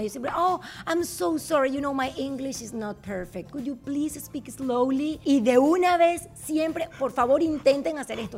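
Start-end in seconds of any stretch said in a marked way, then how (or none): 0.4-5.2 slow polite request. Shown as a demonstration. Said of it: "un tip que yo hago".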